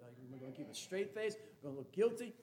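ordinary talk

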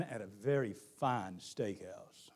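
hushed whispered aside. Real, not acted. Pastor confiding to the congregation in a whisper. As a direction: lean in and whisper it.

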